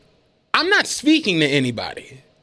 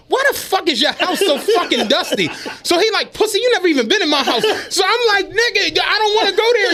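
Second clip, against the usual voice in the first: much higher, half-shouted through laughter; retold break-room spat, shouting and laughing; 10 semitones higher than usual. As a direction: yell it while cracking up. Heated laughing retold argument.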